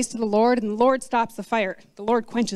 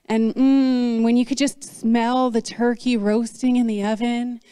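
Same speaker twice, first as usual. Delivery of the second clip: wistful food longing; slower than usual. Pretend. Acting out hungry longing while fasting.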